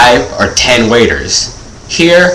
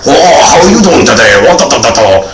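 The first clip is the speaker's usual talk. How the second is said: put-on a light Mister Miyagi-style accent. Chef greets diners in a light Mister Miyagi accent. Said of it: "Mister Miyagi, like, accent".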